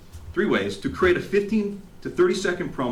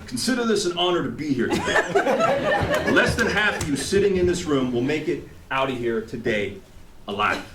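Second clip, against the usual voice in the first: General Patton speech; 3 semitones higher than usual. Retold or imitated. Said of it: "they gave the General Patton type of speech".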